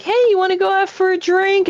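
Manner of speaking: mock cheery invite. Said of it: "You're like".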